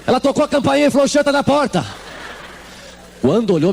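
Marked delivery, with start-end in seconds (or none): 0.0-1.9 high, playful teasing voice; a hammed-up warning that the smell has arrived; mock announcer of the smell. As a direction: tease that the stink has reached the door. Mocking the smell reaching upstairs.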